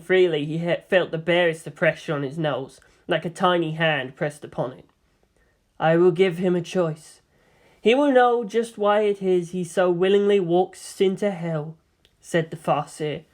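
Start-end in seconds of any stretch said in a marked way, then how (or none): 5.8-11.8 gently measured seer's voice; quietly assured woman mentor; spoke softly. Acted. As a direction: soften into a tender promise. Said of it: "She turned to him and spoke softly".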